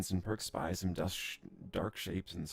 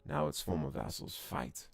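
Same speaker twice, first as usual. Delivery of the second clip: louder, grand alien storyteller; alien lore speech; 5 dB louder than usual. Acted. Alien voice telling the fallen empire's history, louder and grand. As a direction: proclaim the old empire's fall.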